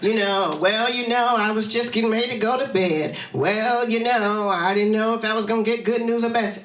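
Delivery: lightly mocked aimless excuses; noncommittal hedging. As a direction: stall on each "well, you know". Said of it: "instead of saying".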